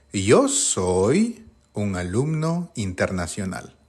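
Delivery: reads the sentence out slowly and deliberately; slow exercise read. Shown as a demonstration. Teacher slowly reading exercise one to students. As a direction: lay out each word slowly for the class. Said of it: "Número uno".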